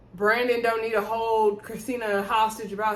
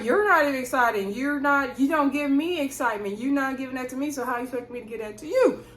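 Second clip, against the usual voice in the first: heated retort; 4 semitones higher than usual. Retold or imitated. Wife snapping back at her husband, heated. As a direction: fire it back at him, indignant. Heated couple argument retold.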